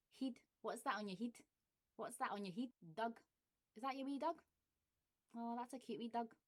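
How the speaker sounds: broad Glasgow, "heed" for head; Glaswegian. Shown as a demonstration. Demonstrating tag words to viewers in Glaswegian. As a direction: drop into full Glaswegian. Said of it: "accent tag word demo".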